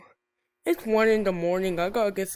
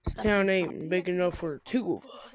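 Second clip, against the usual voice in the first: put-on cowboy accent. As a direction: play a gunslinger with a Western accent. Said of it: "stop with the cowboy accent".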